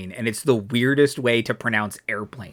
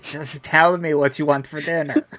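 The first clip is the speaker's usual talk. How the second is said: mock exasperation through laughter; amused joke; 3 semitones higher than usual. Game master jokes about dinner, laughing. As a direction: toss it out laughing. Joking version of the Hutt's question.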